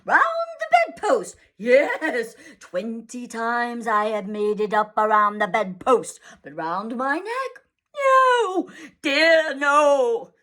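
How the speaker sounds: bitter sarcasm with a laugh; mock the tie with biting sarcasm; sarcastic father ranting about his tie; dangerously sarcastic. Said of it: "He became dangerously sarcastic".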